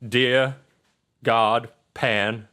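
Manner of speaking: measured grace with pauses between phrases; phrase by phrase, like grace at dinner; table prayer. Acted. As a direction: say an earnest mock blessing over the bread. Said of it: "He says".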